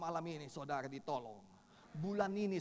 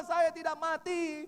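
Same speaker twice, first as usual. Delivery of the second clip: slow, loud, high declaration; frantic shouting; 12 semitones higher, 11 dB louder, slower than usual. Retold or imitated. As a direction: declare it at full voice. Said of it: "teriak-teriak seperti orang gila". (berteriak seperti orang gila)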